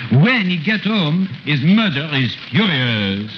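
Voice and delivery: put-on storyteller with a thick French accent throughout. Comic uncle retelling Jack and the Beanstalk in French accent. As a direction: tell the fairy tale in broken French-accented English.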